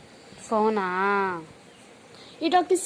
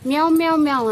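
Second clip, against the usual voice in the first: playful cat meows, a bit louder; kitten meow; 3 dB louder, faster than usual. Acted. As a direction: mew like a kitten for the kids. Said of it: "పిల్ల ఏమనిద్ది?". (పిల్లి మ్యావ్ అనుకరణ)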